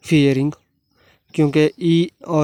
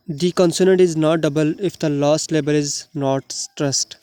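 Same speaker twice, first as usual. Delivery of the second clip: very slow, deliberate dictation of the rule; rule read aloud; much slower than usual. Shown as a demonstration. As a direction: spell the rule out word by word for students. Reads English rule aloud. (बहुत धीरे, शब्द-शब्द पढ़ना)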